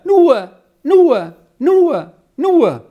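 high, loud repeated bird call. A narrator's reading. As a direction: call each word like a bird, leaping high then falling. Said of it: "Nun ruft er wieder". (hoher, lauter Vogelruf)

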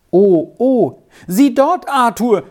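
put-on high, loud child's cry; sudden excited cry. A narrator's reading. Girl suddenly spots cows and calls her friend, excited cry. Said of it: "schrie Squirrel auf einmal auf".

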